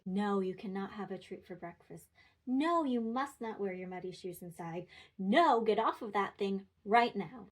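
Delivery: scolding harder with each no; escalating frustrated no. Shown as a demonstration. Parent scolding a child, building to loud frustration. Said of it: "say no in varying levels of severity and frustration".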